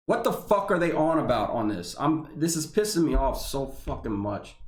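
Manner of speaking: exasperated, heated venting; real anger at the memo; worked up. Real, not acted. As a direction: let the frustration boil over. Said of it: "I'm getting worked up".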